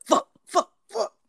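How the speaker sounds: loud high mock curse; mock frustrated gamer swearing at the controller; imitating raging gamer. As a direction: act out a raging gamer cursing. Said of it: "he's like".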